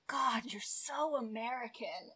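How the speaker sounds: mock wife quote. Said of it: "she'll be like".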